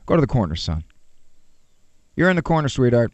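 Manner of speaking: put-on gentle parent sending a child to the corner; said nice. Shown as a demonstration. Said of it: "You could even say it nice".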